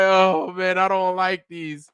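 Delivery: high, whiny little-kid voice, lightly acted; the kid complaining to his mom, whimpering; whining kid. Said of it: "I was like".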